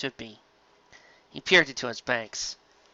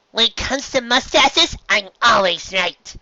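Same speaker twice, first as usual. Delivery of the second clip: high, slow proud boast; much higher, slow, smug boast; proud declaration; 9 semitones higher, 5 dB louder, slower than usual. Acted. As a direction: declare it grandly. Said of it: "Pinkie declared proudly".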